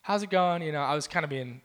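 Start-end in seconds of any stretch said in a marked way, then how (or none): 0.0-0.6 higher-pitched, polite retold greeting; imitated friendly hello; trying to be nice. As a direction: greet a stranger, making an effort. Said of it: "I was trying to be nice".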